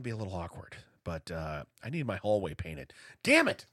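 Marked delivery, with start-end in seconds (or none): 3.2-3.6 frustrated shout. Acted. Mock outburst over painting.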